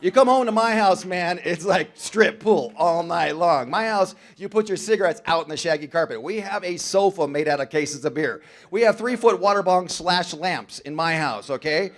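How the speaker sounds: big boastful voice, pushing it out loud; loud party bragging. Retold or imitated. Former drinker boasting of his party house, loudly. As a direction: brag about the wild house at full volume.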